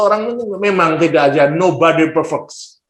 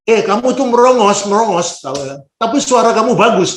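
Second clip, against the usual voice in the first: blunt critic; 6 semitones higher than usual. Retold or imitated. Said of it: "Ini kasar juga nih si pengamat".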